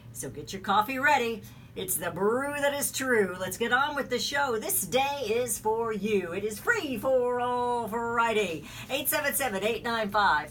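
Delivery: showman's rhyming radio patter; radio show opener. Real, not acted. Host urging listeners to call the show, announcer style. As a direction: roll out the call-in pitch like an announcer. Rhyming intro and phone number.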